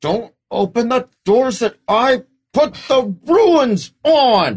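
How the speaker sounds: shrill, very loud, high, furious angry shouting. Storyteller voicing a character yelling at the players who opened the door: angry Lara Shen yelling. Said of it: "as he yells at you".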